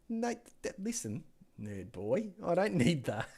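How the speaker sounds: a hint of the boss brushing him off, rising to a bark; mock boss. Mimicking his boss refusing the microphone, mock dismissive.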